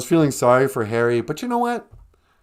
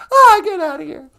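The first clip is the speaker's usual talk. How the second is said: higher, teasing wifely voice; mock sweet wife; 13 semitones higher, 9 dB louder than usual. Wife teases her husband, high sing-song voice. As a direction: needle him playfully.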